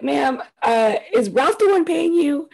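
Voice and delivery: sassy talk-back, drawn out at the end; slow the last words down with a knowing sass. Retold or imitated. Talking back to the counselor, sassy and slow.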